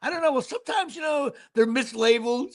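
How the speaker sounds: lightly voiced saleswoman, high and hesitant; a hint of a flustered clerk trying to cover. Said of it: "And she's like".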